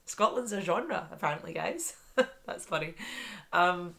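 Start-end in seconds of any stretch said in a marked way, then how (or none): 3.5-3.9 loud real surprise; surprised. Real, not acted. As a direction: genuinely caught off guard. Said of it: "That was literally my live reaction".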